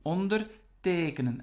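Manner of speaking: "ondertekenen" with the stress on TE; stress on second part. Shown as a demonstration. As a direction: set "onder" apart and land on TEkenen in "ondertekenen". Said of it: "the stress is on the second part".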